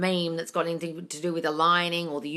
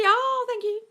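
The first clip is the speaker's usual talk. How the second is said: very high, cooing thank-you; gushing thanks; 14 semitones higher, slower than usual. Real, not acted. Host thanks a viewer praising her energy, gushing. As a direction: coo it sweetly, way up high.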